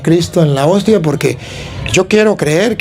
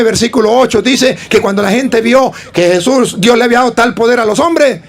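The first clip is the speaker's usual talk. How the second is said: put-on child reciting; 3 semitones higher than usual. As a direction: recite like a proud pupil.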